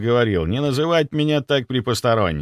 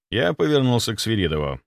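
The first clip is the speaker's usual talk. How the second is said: ordinary delivery, nothing marked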